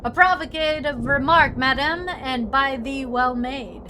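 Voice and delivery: reply with mock old-world politeness; archaic gentleman. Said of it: "When did you start talking like this?".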